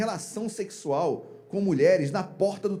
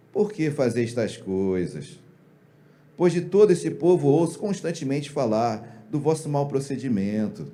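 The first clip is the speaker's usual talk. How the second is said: low, slow reading of a father's rebuke; mild, feeble reproach; 5 semitones lower than usual. Acted. Eli reading his sons a feeble rebuke, mild reproach. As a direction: rebuke them weakly, without any force. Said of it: "a entonação de voz é minha".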